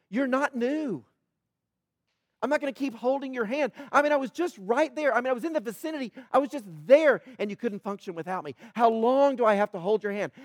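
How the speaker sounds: an impatient teacher losing patience with his class; exasperated Jesus. Retold or imitated. Jesus chiding disciples who can't function without him, exasperated.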